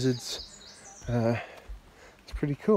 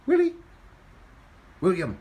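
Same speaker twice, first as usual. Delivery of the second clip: calling out; 8 semitones higher, 8 dB louder than usual. Real, not acted. Calling the cat.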